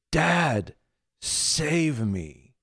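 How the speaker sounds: retold cry for help. Preacher voices a daughter crying out to her father, pleading call. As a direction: cry out, starting high and strong. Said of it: "when she finally cried out".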